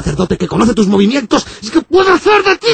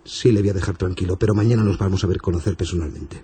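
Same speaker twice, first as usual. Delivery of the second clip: far lower, soft priest voice; deep priest voice; 5 dB quieter than usual. Acted. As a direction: fade into a low solemn priest. Very low distant priest voice.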